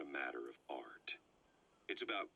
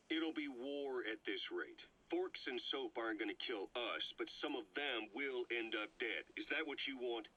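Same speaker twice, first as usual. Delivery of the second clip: raised, urgent, pressing hard; heated pushback; 5 semitones higher than usual. Acted. Ocelot confronting Miller over the kids, heated and raised. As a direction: push the point with rising heat.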